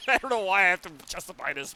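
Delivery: laughing. Real, not acted. Streamer explaining a running joke to chat, laughing. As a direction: talk through bursts of giggles.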